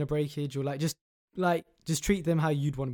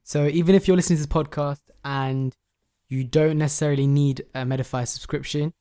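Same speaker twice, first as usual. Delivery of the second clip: loud urgent appeal; 7 dB louder than usual. Real, not acted. Urging listeners to share giveaway.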